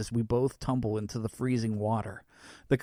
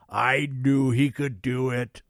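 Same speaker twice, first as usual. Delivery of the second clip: Santa voice; 5 dB louder than usual. Acted. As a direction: play a cheerful Santa. Santa speaks.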